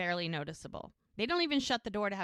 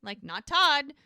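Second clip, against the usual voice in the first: pointed, with a smile. Retold or imitated. Jack reminds Charmaine he is the father, smiling restraint. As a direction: make the point through a polite smile. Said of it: "with a smile".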